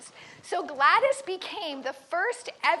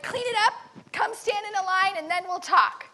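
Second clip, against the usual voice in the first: yelling orders; 3 semitones higher than usual. Retold or imitated. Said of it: "she just keeps yelling orders".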